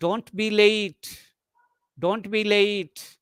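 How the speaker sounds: slow, stretched "late"; slow model line, LATE lengthened; command as request. Shown as a demonstration. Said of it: "Command intended to sound like a request".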